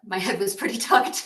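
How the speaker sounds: muffled. Real, not acted. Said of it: "I hope you all heard that".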